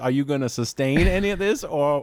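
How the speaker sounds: exasperated courtroom appeal; exasperated objection. Acted. Lawyer protests to an unresponsive judge.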